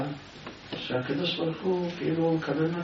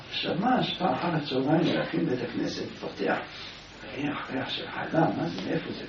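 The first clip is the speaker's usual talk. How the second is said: hushed, unvoiced telling; whispered; 6 dB quieter than usual. A narrator's reading. Preacher tells the shammash's secret visit to the synagogue in a whisper. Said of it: "והוא בלחש".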